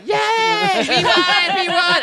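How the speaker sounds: high, loud gnome cheer. Acted. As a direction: shout it like a happy gnome. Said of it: "And they're like".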